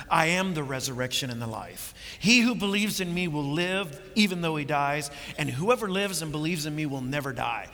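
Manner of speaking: firm, emphatic pronouncement; powerful declaration. Retold or imitated. Jesus answers grieving Martha with a powerful word, declared firmly. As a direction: declare it with weight and authority. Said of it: "this powerful word".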